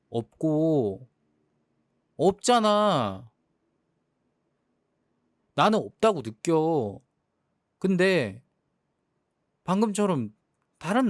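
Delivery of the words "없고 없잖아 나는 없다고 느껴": stretched hurt cry. Acted. Quarrel, emotional outburst.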